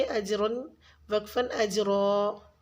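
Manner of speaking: अजरन said slowly, then stopping as अजरा; waqf demonstration. Shown as a demonstration. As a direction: contrast the slow अजरन with the pause form अजरा. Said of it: "वक्फ़ की सूरत में एक ज़बर को पढ़ेंगे". (अजरन और वक्फ़ पर अजरा धीरे से)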